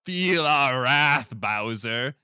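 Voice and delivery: lightly voiced, slow royal threat; a hint of a pompous penguin king. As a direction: declare war like a small king, slowly. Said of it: "He's the king penguin. And he says".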